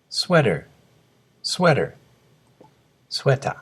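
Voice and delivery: スウェーター said as English "sweater", stress on the first syllable; English pronunciation model. Shown as a demonstration. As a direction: clear teacher's model of スウェーター as native English. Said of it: "よく聞いてください".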